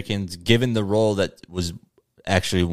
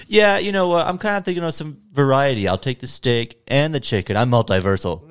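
goofy celebrity voice; 6 semitones higher than usual. Retold or imitated. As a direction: play a pompous star ordering dinner. Imitating Cumberbatch ordering food.

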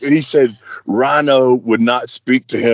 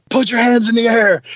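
higher-pitched imitated police order; cop's command; 7 semitones higher than usual. James' brother points a taser at Rhino, mock commanding. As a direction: order him like a cop with a taser.

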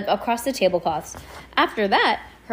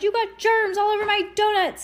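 put-on bratty girl voice; 12 semitones higher than usual. A narrator's reading. Melanie's disgusted complaint.

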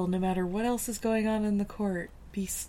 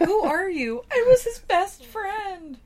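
loud dramatic voice; 10 semitones higher, 7 dB louder, slower than usual. Retold or imitated. Acting cop and Alex.

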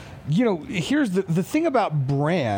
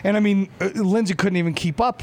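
excited, voice up high; rushing, pumped-up storytelling; adrenaline rush; 5 semitones higher than usual. Real, not acted. Excited memory of packed opening day.

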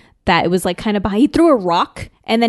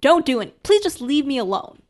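higher-pitched pleading, lightly acted; mock begging; 4 semitones higher than usual. Kid begs the slayer to go, acted pleading. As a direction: plead to be left alone. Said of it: "he's begging him".

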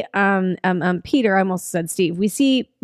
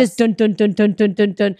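imitated pounding. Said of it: "pounding her head so fucking fast".

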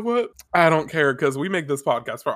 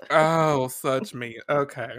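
quiet, spent after laughing; after laughing hard; 4 dB quieter, slower than usual. Real, not acted. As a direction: catch your breath after a laughing fit. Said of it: "I'm crying".

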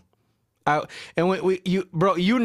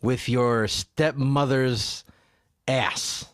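very slow, deliberate mock-serious rebuke; big boy voice; much slower than usual. Podcaster telling off the platform's makers, big boy voice. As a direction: spell it out slowly in a big boy voice. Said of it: "I had to use my big boy voice".

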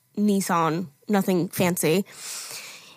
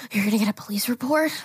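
imitated gasp, then a quick, softer question; gasping alarm; 4 dB quieter, faster than usual. Man who hit her learns police are coming, gasping alarm. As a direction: mimic a man taken aback, hurried after a sharp inhale. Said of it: "Like that".

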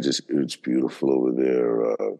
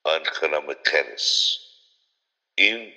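Afrikaans greeting; slower than usual. Acted. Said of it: "I will start my speech like this".

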